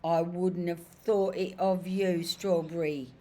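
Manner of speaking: high, loud, wounded protest; indignant disbelief. Acted. Cabbie protesting to his forgetful horse, loud and high. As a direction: cry out as if betrayed by an old friend.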